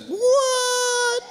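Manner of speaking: a wife staring in disbelief, crying out; wife's shocked "what". Retold or imitated. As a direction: play the stunned wife. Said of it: "when she does that".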